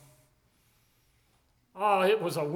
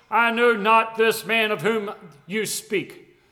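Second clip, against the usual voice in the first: slow, measured denial with a hint of Peter's oath; Peter swearing denial; 3 dB louder, slower than usual. Peter denies Jesus to the accusers, slow and lightly sworn. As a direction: deny knowing the man, a touch sworn. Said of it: "began to curse and to swear".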